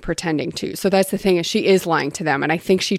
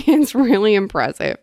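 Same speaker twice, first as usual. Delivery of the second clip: higher-pitched praise with a laugh; laughing admiration; 4 semitones higher, 3 dB louder than usual. Real, not acted. Readers admiring a coded passage, laughing admiration. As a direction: laugh into the words, impressed.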